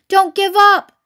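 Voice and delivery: out of breath, loud urging; panting. A narrator's reading. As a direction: push them on while out of breath. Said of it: "panted Mister Fox".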